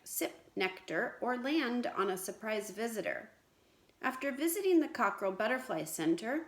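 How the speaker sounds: put-on lively storybook read-aloud to children; story reading. Teacher reading a story to her class, lively read-aloud. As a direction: read it out brightly like a picture book.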